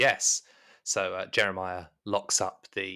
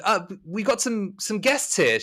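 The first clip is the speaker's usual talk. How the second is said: raised, much higher voice; loud, high call; calling through; 10 semitones higher, 4 dB louder than usual. Acted. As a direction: announce visitors to someone in another room. Butler calls to maid in next room.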